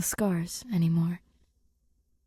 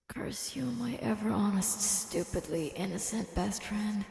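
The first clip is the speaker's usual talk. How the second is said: mock curse under breath; 5 dB quieter than usual. Grace mock-cursing Rocky inwardly.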